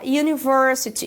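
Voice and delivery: university starting with a J glide; y sound in university. Shown as a demonstration. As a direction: open university like you. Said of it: "Esse som, ele é puxado pra um J".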